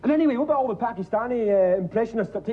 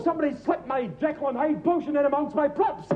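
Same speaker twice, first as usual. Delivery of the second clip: ordinary delivery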